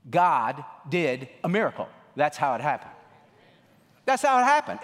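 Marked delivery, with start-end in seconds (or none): 4.1-4.8 high, loud declaration; preacher shouting the punchline; shouted proclamation. Real, not acted. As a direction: ring it out to the congregation. Repeated answer, now shouted.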